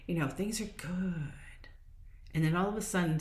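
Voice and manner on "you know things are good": hushed mock sigh of contentment; whispered contentment. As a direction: breathe it out like a satisfied secret.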